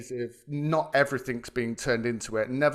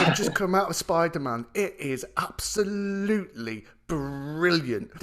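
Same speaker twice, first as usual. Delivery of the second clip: imitating a thrilled dad, raised pitch; excited rave; 4 semitones higher than usual. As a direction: rave like a dad bursting with news, stretching the praise. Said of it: "like, with excitement".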